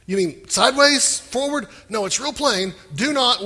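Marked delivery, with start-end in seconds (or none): 0.1-1.7 mock question. Shown as a demonstration. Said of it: "mock question".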